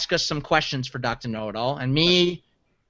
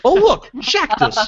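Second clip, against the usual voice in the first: high, slow mock discovery; imitating Shaq; 10 semitones higher, 4 dB louder, slower than usual. Retelling Shaq's next Scrabble move, drawn-out mock discovery. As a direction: stretch it out, pitched up, like a feigned happy find. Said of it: "and just goes".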